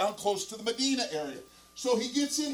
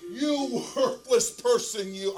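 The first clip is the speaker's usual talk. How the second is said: slow, drawn-out mock scolding; retold lashing out; 2 semitones higher, 4 dB louder, slower than usual. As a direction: imitate a wife lashing out, slowly. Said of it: "she just lashes out at him".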